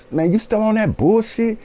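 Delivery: high, sneering imitation of the foreman; mocking foreman. Quoting the foreman who brushes off his complaint, high mocking voice. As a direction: mimic the boss dismissively, way up high. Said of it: "he pauses and is saying".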